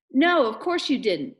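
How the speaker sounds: teasing agreement. Acted. Missus Beale humours her daughter with a wink, teasing agreement. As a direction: agree while clearly not meaning it.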